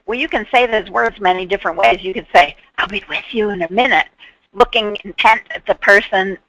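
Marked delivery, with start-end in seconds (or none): 2.8-4.1 quick, half-attentive reply, mind on the phone; hurried and distracted, attention elsewhere. Shown as a demonstration. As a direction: rattle it off while busy with the phone. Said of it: "distracted by the phone".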